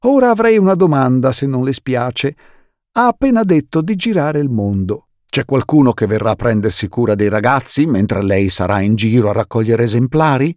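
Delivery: a hint of a fussy banker, questioning; lightly voiced fussy banker asking; lightly voiced Mr Poe.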